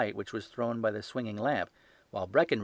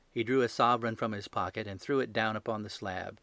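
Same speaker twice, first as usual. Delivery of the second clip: plain reading voice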